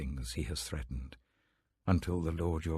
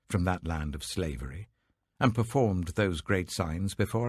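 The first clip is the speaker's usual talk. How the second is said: louder, rising proclamation of the people; fervent crowd reply; 4 dB louder than usual. Acted. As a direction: declare it boldly as the whole people. The people answer Joshua fervently.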